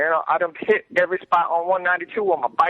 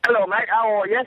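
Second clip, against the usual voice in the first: put-on British accent; 3 semitones higher than usual. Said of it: "Role play, role play".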